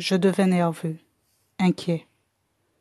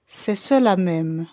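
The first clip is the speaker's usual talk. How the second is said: lent, mot par mot; répéter posément pour être compris; plus lentement; slower than usual. Acted. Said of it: "répétai-je plus lentement". (redire lentement pour se faire comprendre)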